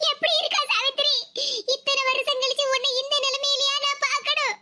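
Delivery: mildly tearful mother-in-law's lament; acted, understated weeping. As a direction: lament over a sick relative, a touch tearful. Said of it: "சத்தம் போட்டு அழுது அழுது".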